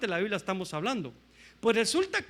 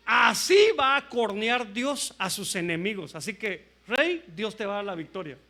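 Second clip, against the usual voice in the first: false prophet's proclamation; 5 dB louder than usual. Retold or imitated. False prophet proclaims victory to the king, mock declamation. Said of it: "Y viene él y decía".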